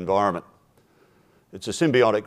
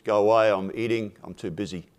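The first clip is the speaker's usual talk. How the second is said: can't be bothered, too busy eating; lightly voiced chicken waving them away; dismissive chicken. Chicken brushes off the mice.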